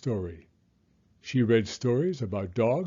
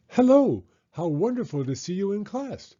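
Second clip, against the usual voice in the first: very high, loud Hello then high chirpy voice; chirping bird; 7 semitones higher, 5 dB louder than usual. A narrator's reading. Bird greets Rocket arriving early, high chirpy hello. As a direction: greet the pupil with delight. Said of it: "she chirped".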